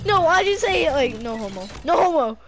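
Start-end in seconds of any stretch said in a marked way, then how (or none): 1.2-1.7 lower, muted mimicry; understated, low-key echo; quiet imitation. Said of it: "Like, you said it quietly". 1.8-2.4 raised, emphatic exclamation; bold, open delivery; louder retake. Shown as a demonstration. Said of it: "Like, you said it quietly".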